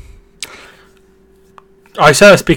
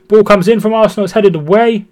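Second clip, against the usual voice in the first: raised football commentary, lightly performed; live play-by-play; 4 semitones higher than usual. Pretend. Streamer narrating an Arsenal match for viewers, play-by-play. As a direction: call the match as it unfolds.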